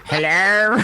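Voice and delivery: slow, drawn-out hello; Mister Bean voice. Acted. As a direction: stretch the greeting like Mister Bean. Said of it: "channel Mister Bean".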